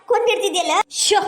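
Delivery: mother-in-law's cursing tirade; ranting outcry. Acted. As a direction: rail at the daughter-in-law without letting up. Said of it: "ಯಾಕಷ್ಟು ಬಾಯಿ ಮಾಡಿ ಒದರಾಡ್ತೀರಿ".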